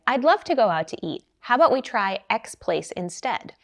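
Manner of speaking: lighter, brighter, friendly invitation; a touch brighter and warmer. Shown as a demonstration. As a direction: sound glad to go, just somewhere cheaper. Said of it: "much lighter, brighter tone of voice".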